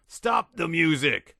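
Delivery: high, loud, slow yell. A narrator's reading. General barging in, yelling at Derek to stop playing. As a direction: bark it out to kill the music. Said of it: "yelled the general".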